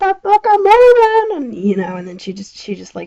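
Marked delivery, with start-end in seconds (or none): 0.0-1.4 very high, shrill, drawn-out, top-of-the-lungs scream. Retelling what an aunt screamed while driving: imitating someone screaming at top of lungs. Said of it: "she just absolutely screams at the top of her lungs".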